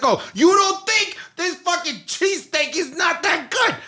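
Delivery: high, hammed-up offended local; mock tough Philly guy. Philly guy defending his cheesesteak, mock offended. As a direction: needle the visitor like a touchy local. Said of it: "And they're like".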